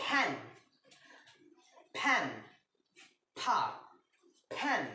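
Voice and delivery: ফ্যান repeated with a clear F sound; model pronunciation. Shown as a demonstration. Teacher drilling ফ্যান for the students. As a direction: drill ফ্যান slowly, stress the F. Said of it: "এটি উচ্চারিত হবে".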